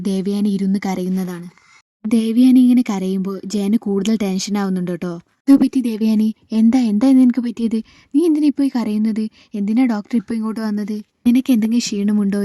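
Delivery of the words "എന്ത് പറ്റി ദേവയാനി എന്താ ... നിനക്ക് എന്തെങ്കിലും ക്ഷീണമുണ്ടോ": questions rushed out without a pause; all in one breath. Retold or imitated. Husband rushes worried questions at crying wife, all in one breath. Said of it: "ഒറ്റ ശ്വാസത്തിൽ ചോദിക്കുന്നുണ്ട്".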